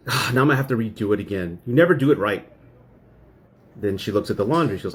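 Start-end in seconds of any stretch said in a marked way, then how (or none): 0.1-2.5 sighing complaint, louder at the end; mildly acted reproach; retold exasperation. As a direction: imitate a fed-up wife finding fault. Acts out wife complaining after sigh.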